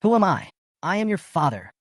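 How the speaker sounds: furious yell. A narrator's reading. Father yelling at his rude son on the phone, furious. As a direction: roar it at the insolent boy. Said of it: "Sun Yongtai yelled, furious".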